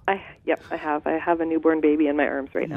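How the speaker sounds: talking while gently bouncing. Real, not acted. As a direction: voice jolted by bouncing. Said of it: "So I am also bouncing up and down while I talk to you".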